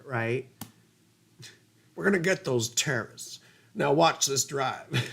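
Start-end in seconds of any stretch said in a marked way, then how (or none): 1.9-5.1 put-on Texas accent Bush. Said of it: "the clip was everywhere".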